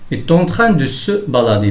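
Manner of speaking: slow, careful sentence reading; slow teacher's model sentence; example read-out. Shown as a demonstration. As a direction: read it out slowly for learners. Teacher reads example sentence aloud.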